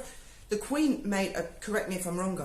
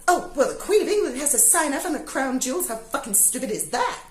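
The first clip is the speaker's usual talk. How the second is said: louder, pitched-up sneering send-up; mock complainer; 4 semitones higher, 4 dB louder than usual. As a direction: ham up a silly viewer's outrage. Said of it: "You don't go".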